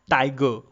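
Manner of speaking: "tiger" hit hard on "ti", light on "ger"; stress on first syllable. Shown as a demonstration. Lecturer giving a trochee example, first syllable of "tiger" stressed. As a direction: stress the opening of "tiger", let the end drop. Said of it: "I stress the first part of".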